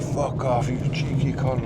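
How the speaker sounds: put-on light Eastern European accent on an aggressive insult; mock Eastern European accent. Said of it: "like, Eastern European or something".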